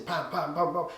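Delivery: punchy "pam" beat sounds; imitated beat accents. Shown as a demonstration. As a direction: voice the music's accents as short pam hits. Voicing accents of the music.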